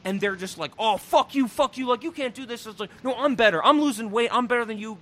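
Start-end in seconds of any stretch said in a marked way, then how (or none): 0.8-2.7 higher-pitched imitation of bickering kids; mock squabbling. Kids fighting over Stacy's mom, mock squabbling. Acted quarrel between the kids. 3.0-5.0 raised, competitive mock squabble; mock bragging retort. Kid one-upping his friends in a fight, mock bragging. Acted quarrel, kid arguing back.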